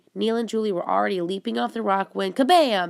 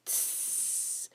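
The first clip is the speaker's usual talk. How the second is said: bug hiss; 16 dB quieter than usual. A narrator's reading. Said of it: "The bugs hissed".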